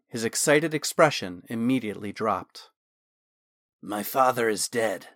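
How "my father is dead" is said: flat. Acted. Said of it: "he said flatly".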